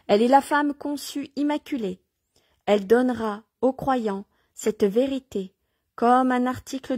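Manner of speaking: measured, declaimed reading with phrase-by-phrase pauses; devotional reading aloud. Acted. Reader proclaiming Mary to listeners, devotional reading aloud. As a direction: read it out solemnly, phrase by phrase.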